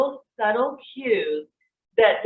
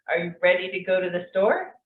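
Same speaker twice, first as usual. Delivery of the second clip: a question going up at the end on "store"; question intonation; 2 semitones lower than usual. Shown as a demonstration. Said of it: "our questions go up at the end".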